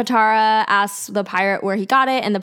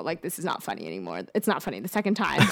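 annoyed pirate; 6 semitones lower, 7 dB quieter, faster than usual. Retold or imitated. Annoyed pirate voiced in recap.

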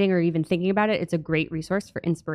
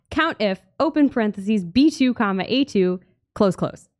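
dictating. Shown as a demonstration. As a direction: read the formula out step by step. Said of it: "should I read the formula".

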